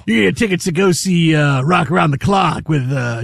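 gravelly radio DJ voice; old-school late-night DJ; Wolfman Jack. Retold or imitated. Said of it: "now you're going more Wolfman Jack".

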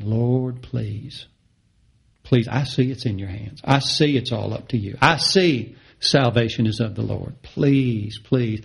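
hushed, pleading prayer to the Lord; quiet begging. Acted. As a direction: beg softly, almost fading out. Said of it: "true worship starts begging".

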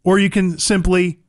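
conversational host-read sponsor spot; punchy, friendly commercial pitch; radio ad read. Real, not acted. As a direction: sell the service to listeners. Reads a sponsor ad.

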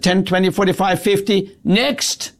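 "Ten, twenty, forty-five, fifty" counted off curtly, "next" snapped up high; rude teller. Retold or imitated. Hostile bank teller to the customer, curt and dismissive. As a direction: count the money out as if the customer is a nuisance. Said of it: "it was very clear that she hated me".

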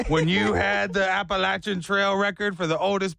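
taunting, teasing laugh; gloating old friend. Retold or imitated. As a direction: gloat like a smug old rival. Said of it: "he's over here like".

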